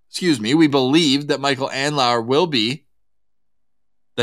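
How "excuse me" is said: choked on a sip; clearing a throat after choking; swallowed wrong way. Real, not acted. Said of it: "went down the wrong way".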